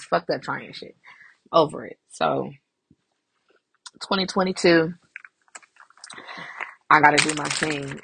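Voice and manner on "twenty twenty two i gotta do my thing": hiccuping between words; with hiccups. Real, not acted. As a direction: hiccups breaking the phrase. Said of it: "I know I get the hiccups".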